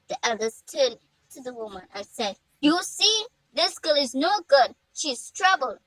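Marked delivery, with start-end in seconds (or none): 2.6-5.8 louder, emphatic disapproval; exasperated complaint. A narrator's reading. Elder complains to the woman about Hannah, exasperated disapproval. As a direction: pronounce her a lost cause, voice raised.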